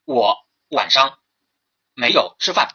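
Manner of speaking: each word laid out slowly; slow example sentence. Shown as a demonstration. Teacher reading an example sentence to the class, slowly. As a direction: read the sample sentence very deliberately. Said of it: "他说".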